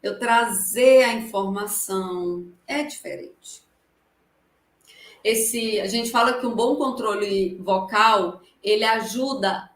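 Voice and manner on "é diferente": whisper. Real, not acted. Aside after the demo.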